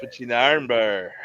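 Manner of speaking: a lightly voiced gruff old wrestler; a hint of Stu Hart's growl; Stu Hart impression. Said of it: "Like Stu Hart?".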